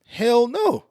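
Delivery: sharp, high, loud "Hell no"; defiant refusal. Retold or imitated. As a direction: slam the refusal down on him. Refusing the pastor's handshake.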